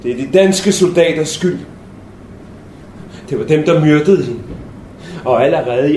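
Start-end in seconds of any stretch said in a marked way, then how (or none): none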